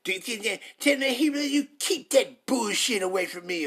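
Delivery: slow, sneering imitation of a scoffer; mock voice of the crowd waving off the preacher; mocking dismissive listener. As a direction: drag it out like someone brushing him off. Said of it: "That's what you saying".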